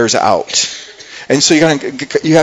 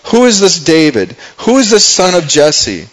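mildly scornful, emphatic questions; lightly acted contempt; dismissive Nabal; 3 semitones higher than usual. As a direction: belittle him with the question. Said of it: "kinda slandering and kinda, uh, downplaying".

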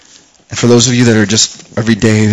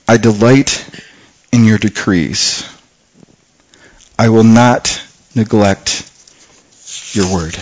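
scripture reading; slower than usual. Acted. Preacher reading verse sixteen to the church, slow and softening.

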